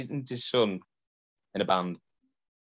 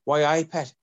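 demonstrated Geordie, higher and louder; firm Geordie catchphrase, pitched up; corrective Geordie accent; 8 semitones higher, 5 dB louder than usual. Retold or imitated. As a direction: show them the proper Geordie way. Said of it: "No, you're doing Irish".

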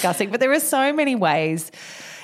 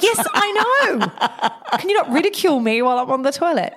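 laughing exasperation; 5 semitones higher than usual. Retold or imitated. Exasperated mum retold to kids.

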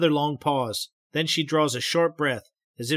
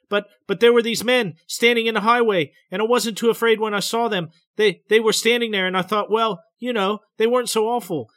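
higher and louder, stammering fear; frightened telling; 6 semitones higher, 4 dB louder than usual. A narrator's reading. Betty describing the men in the road, frightened. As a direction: push through the memory, scared.

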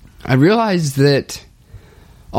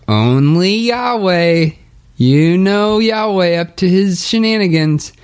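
joking mock exclamation; 8 semitones higher than usual. Brothers joking around about God's name, high playful mock exclamation. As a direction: stretch it out high, hamming up the joke. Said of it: "Nick and I were joking around".

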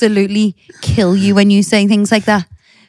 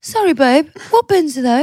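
higher gormless husband reply; 5 semitones higher than usual. Pretend. Wife does husband's gormless answer on request, raised pitch. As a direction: sound dim and innocent. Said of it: "Go on, do me again".

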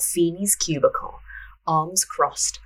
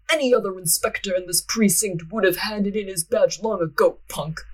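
spat; 2 semitones higher than usual. Acted. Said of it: "he spat".

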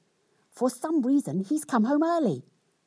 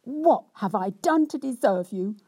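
hammed-up self-pitying rant; cross, wronged wife; 6 semitones higher than usual. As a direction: lay on the injured virtue, complaining. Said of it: "in much the same way as before".

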